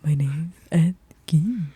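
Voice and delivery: slow creepy whisper; Ed Gein impression. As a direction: whisper it slowly, like a killer. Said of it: "a perfect Ed Gein impersonation".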